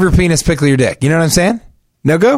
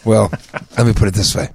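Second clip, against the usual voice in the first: hushed; 5 semitones lower, 5 dB quieter than usual. Acted. Hushed talk, kids asleep.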